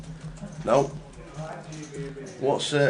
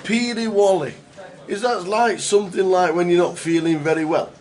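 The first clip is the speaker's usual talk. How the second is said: excited guess; 5 semitones higher, 4 dB louder than usual. Real, not acted. Guessing the Scottish word excitedly.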